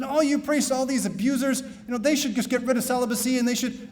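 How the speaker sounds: a hint of a hostile interviewer; mock aggressive reporter. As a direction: priest retells a TV reporter laying into him. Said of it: "getting more aggressive".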